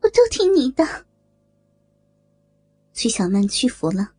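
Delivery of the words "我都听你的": higher, urgent plea; desperate, high-voiced begging; frightened pleading. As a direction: beg desperately, pitch climbing. Hostage daughter pleads for her mother.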